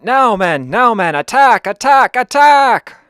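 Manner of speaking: a desperate officer yelling his troops forward; frantic battle cry. Acted. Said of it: "And the Frenchman went".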